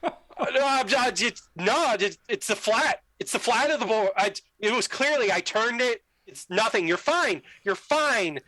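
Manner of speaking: mock-panicked excuses, tripping over the words; flustered backpedalling. Player retelling how he talked to a crying girl, flustered.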